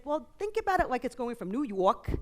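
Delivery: lightly imitated Brooklyn dad; a touch of quintessential Brooklyn; Brooklyn accent. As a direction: imitate a father's Brooklyn accent, pitched a little up. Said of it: "said to me in his quintessential Brooklyn accent".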